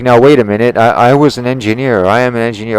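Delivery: high, loud, huffy know-it-all voice; mock indignant engineer. Telling off a tree worker, the engineer client in a huffy mock voice. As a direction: puff up like an offended expert. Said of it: "And they're like".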